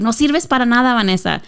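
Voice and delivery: mild mock scold in Spanish; imitating an exasperated mother; lightly voiced angry mother; frustrated scolding mom. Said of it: "in Spanish".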